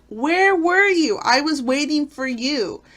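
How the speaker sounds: mock waiting wife. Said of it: "It's like".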